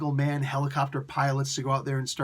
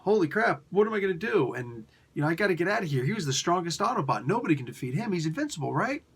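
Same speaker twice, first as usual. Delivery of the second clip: higher, a mild mock panic; panicking Buster; 4 semitones higher, faster than usual. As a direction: babble in light comic fright. Buster panics over Optimus's head.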